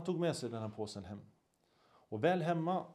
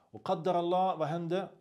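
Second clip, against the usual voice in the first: dramatic build; 5 semitones higher, 6 dB louder than usual. A narrator's reading. Dramatic turn in the story.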